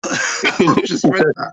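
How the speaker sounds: slow, laughing through the words, caught out. Real, not acted. To the co-host after reading the question aloud, laughing. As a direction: laugh it off, a little embarrassed.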